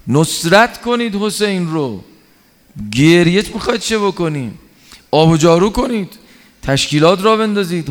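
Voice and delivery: high, urgent calling out to the crowd; urgent shout. Retold or imitated. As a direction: rouse the weeping elders, pitched high and pressing. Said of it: "فریاد کشید سعد ابن عبیده سر اینها". (فریاد بلند و فوری با صدای زیر)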